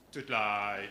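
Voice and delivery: put-on low, broad Dudley accent. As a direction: say it like a Dudley lad. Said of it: "his strong Dudley accent".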